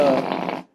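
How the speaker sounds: imitated fart sound; mouth fart noise. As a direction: blow a raspberry as a joke. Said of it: "was a fart sound I just made".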